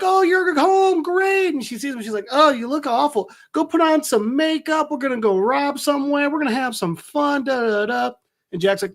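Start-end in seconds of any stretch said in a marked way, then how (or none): 0.0-1.5 high, drawn-out gushing; put-on high-pitched gleeful character voice; imitated excited greeting. Voicing Harley greeting Jack. 2.3-8.1 high-pitched, excitable character voice; hammed-up giddy urging; imitated eager bossiness. Voicing Harley eagerly bossing Jack around.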